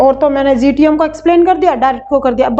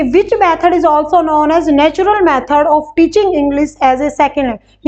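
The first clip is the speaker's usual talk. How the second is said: slow question reading; much slower than usual. Shown as a demonstration. Teacher rereading exam question.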